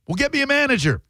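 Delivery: very high mock-outraged demand; indignant customer. Customer demanding the server's boss, acted outrage.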